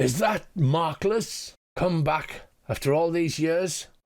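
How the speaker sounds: shouting in a warrior character voice. Game master voicing a warrior who recognises a player, shouting. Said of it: "And he shouts".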